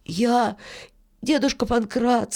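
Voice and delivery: put-on high-pitched boy's voice; Filka, hesitant boy. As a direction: begin timidly to the old miller. Boy begins explaining his plan.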